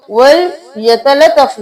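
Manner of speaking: वल यतलत्तफ read fast with the doubled letter run together; वल यतलत्तफ said quickly without holding the doubled letter; वल यतलत्तफ without the doubling; wrong reading. Shown as a demonstration. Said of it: "नहीं करेंगे".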